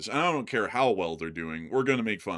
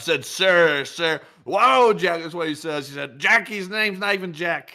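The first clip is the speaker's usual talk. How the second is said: higher, louder bragging put-on voice; boastful politician impression; 6 semitones higher, 5 dB louder than usual. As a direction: brag like a pompous politician, quoting fawning aides. Held bragging impression with quotes.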